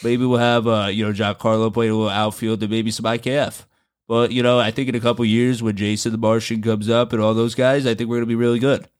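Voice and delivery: lightly put-on manager's voice, held steady; Aaron Boone. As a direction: keep up an impression of a manager listing players. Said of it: "heard him hold that voice".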